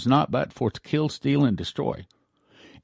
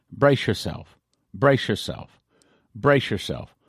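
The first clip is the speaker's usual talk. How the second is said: each "Brace" hit a little harder than "yourself"; a mild angel's warning with "brace" stressed; 2 semitones lower, slower than usual. A narrator's reading. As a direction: lean on "brace" every time, falling at the end. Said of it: "with the emphasis on the word brace".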